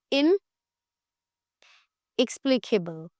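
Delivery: word split after the first syllable by a long pause; इनएक्सप्लिकेबल said slowly in two parts, इन, then the rest; broken into parts. Shown as a demonstration. Teacher giving the class a new word, broken into parts. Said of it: "उसको हम क्या बोलेंगे?".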